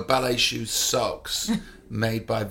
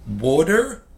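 mock American; 4 semitones higher, 4 dB louder than usual. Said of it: "And then I went".

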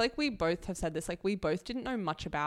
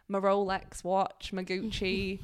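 put-on terrible David Beckham accent; slower than usual. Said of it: "that's a terrible accent".

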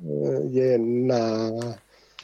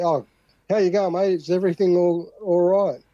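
higher, lightly acted Australian check-in; friendly Aussie mate; 5 semitones higher than usual. Australian greeting a fellow Australian, casual mate's check-in. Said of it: "we're Australian. We'll come up to".

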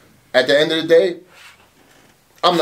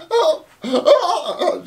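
straining hoarse yell; much slower than usual. Retold or imitated. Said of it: "at the top of my lungs trying to speak".

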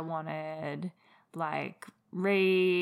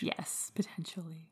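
whispered; 11 dB quieter than usual. Real, not acted. Quiet aside.

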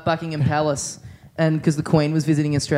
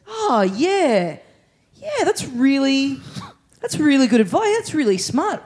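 clueless bloke; 4 semitones higher than usual. Retold or imitated. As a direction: play it as a naive caller thrilled with the advice. Clueless caller voiced in story.

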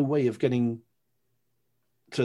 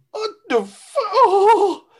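much higher, louder yelp cut off with a laugh; 13 dB louder, much slower than usual. Retold or imitated. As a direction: yelp in pain and laugh through it. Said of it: "I yelped".

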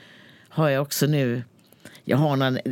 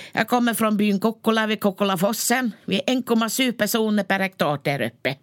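nurse character pitched higher; lightly voiced northern nurse, chatty; a hint of a rural nurse reading her horoscope; Tornedalen nurse; 6 semitones higher than usual. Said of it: "hon brukar säga".

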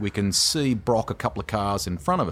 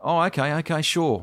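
Peter Brock; 7 semitones higher than usual. Retold or imitated. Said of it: "I can hear him".

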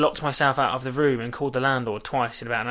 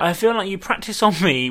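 laughing; 5 semitones higher, 3 dB louder than usual. Real, not acted. Repeating a gaffe, both laughing.

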